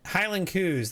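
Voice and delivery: "coos" said like "coo", as Scots say cows; the Scottish "coos" with a long oo, not cows. Shown as a demonstration. Showing chat how Scots say "coos" for Highland cows. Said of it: "That's how they say it".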